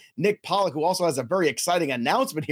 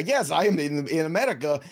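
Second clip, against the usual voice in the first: Yakov Smirnoff. Acted. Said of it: "You sound like a Yakov Smirnoff".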